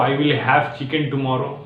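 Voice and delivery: slow, word by word swap; slow demo. Shown as a demonstration. Teacher showing the easier wording slowly. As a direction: ease it out slowly with the new word. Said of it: "आप ये बोल सकते हो".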